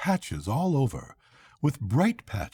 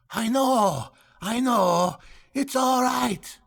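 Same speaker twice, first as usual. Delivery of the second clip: much higher, cheery shouted reassurance; cheerful yell; 12 semitones higher, slower than usual. A narrator's reading. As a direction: call back brightly, not worried at all. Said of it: "yelled back the other, as cheerful as you please".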